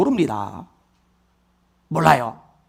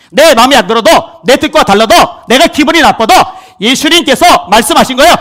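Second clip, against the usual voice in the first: raised, loud pulpit delivery; fiery preaching; 6 semitones higher, 6 dB louder than usual. Acted. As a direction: drive it home to the congregation. Preaches at full force.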